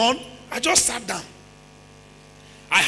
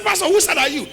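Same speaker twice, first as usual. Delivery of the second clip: quoted lady; 6 semitones higher than usual. Retold or imitated. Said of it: "He said".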